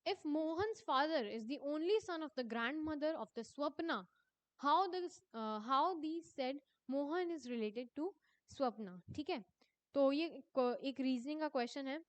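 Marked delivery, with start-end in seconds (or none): 0.0-8.9 reading the exam question aloud, slowly and deliberately. Acted. Teacher reading a quiz question to her students, slow dictation. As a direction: dictate each word to the class.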